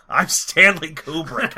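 slow, self-important announcement; Kubrick. Acted. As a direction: draw the name out with mock grandeur. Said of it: "best Stanley Kubrick impression ever".

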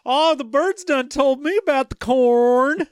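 high, twangy backwoods prospector; old prospector. Retold or imitated. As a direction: tell it like a folksy old miner. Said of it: "he talks like an old prospector".

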